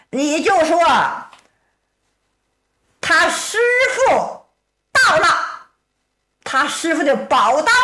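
shouting up the mountain. Acted. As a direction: hail the sentries on the mountain, voice up high. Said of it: "冲山上高声喊道".

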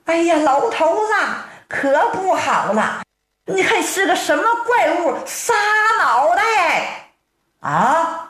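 lightly voiced old wife, scared of a monster; frightened old wife. Old wife begs her husband in fright to look at the monster. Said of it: "他的老婆害怕呀".

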